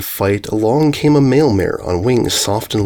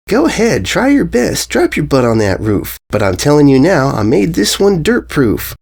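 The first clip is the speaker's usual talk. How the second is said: high, cocky challenge; higher, smug young filly taunting; daring filly; 4 semitones higher than usual. Acted. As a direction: dare her to try. Filly dares Derpy.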